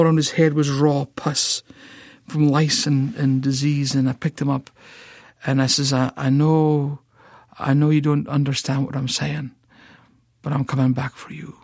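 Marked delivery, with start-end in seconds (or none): 5.9-11.6 put-on gently promising the little boy; tender promise. Promise to orphan boy retold.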